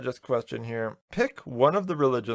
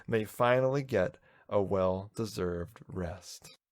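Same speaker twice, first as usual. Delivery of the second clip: poetry reading voice. Acted. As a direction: read it like a dramatic poem. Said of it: "Special poetry voices".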